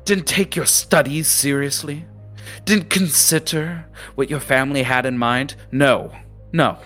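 high-pitched lecturing captain voice; berating captain. Acted. Captain lecturing the students on wasted privilege, high-pitched and stern. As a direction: scold them like a disappointed old captain.

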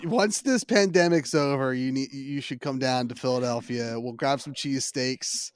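badly faked Philadelphia accent; bad Philly accent. Host inviting the guest down to Philadelphia, bad Philly accent. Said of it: "tried to do a bad Philly accent".

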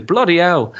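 lightly Welsh bloody hell; a quick Welsh toss-off; Welsh accent. Retold or imitated. Host recalling actor's natural Welsh exclamation. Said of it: "just able to do his".

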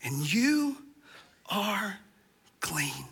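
hushed repeat of the promise; soft repeat. Acted. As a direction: let it sink in softly. Repeated, quieter.

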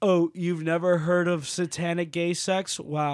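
lightly smug music snob voice. Retold or imitated. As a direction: act superior about a band. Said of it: "being like".

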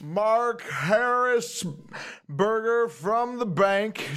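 slow, high showy banker. Acted. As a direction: drawl out the grand entrance. Player voices banker NPC arriving.

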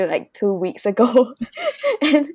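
breaking into a laugh; laughing admission. Real, not acted. Guest confesses a recent clothes purchase, laughing admission. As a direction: admit it with a sheepish laugh.

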